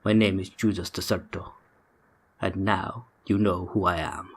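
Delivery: a lightly voiced sinister tempter, sinking to a whisper; copying the villain's voice. Streamer reads the villain's letter in a lightly put-on villain voice. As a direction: play the smooth villain reading his letter, only half in character. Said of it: "me vaguely trying to copy the V A".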